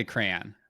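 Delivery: "crayon" said as CRAY-en; "crayon" with a light, reduced last vowel; own pronunciation of crayon. Shown as a demonstration. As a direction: show your way of saying "crayon". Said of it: "I say".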